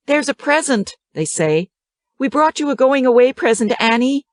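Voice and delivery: put-on eager kids with a present; excited children. A narrator's reading. Children voiced by narrator.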